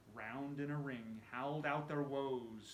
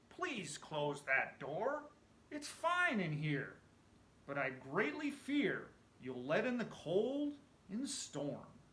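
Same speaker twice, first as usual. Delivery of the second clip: slow, louder, higher voice of a cosy ghost; Sam's contented voice; 6 semitones higher, 5 dB louder than usual. Acted. Dead Sam McGee, warm in the furnace, tells Cap to close the door, slow and content. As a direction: savour every word like a man finally warm.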